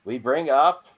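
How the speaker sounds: loud, drawn-out host announcement; mock-grand segment intro; announcer. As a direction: slowly build up the segment like a showman. Host announces end-of-show segment.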